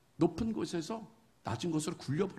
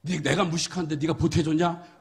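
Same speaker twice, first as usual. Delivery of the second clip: angry retort; 8 dB louder than usual. Acted. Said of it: "화를 내요".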